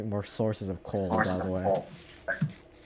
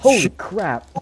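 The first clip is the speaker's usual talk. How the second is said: surprised; 9 semitones higher, 9 dB louder, slower than usual. Real, not acted. Sudden shock in a cave.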